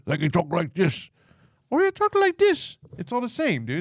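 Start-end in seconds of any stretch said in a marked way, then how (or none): 0.2-1.1 different tone. Shown as a demonstration. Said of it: "Different tone. Just how you say". 1.7-2.8 much higher, drawn-out tone; high, slow demo of another tone; different tone. Shown as a demonstration. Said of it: "Different tone. Just how you say".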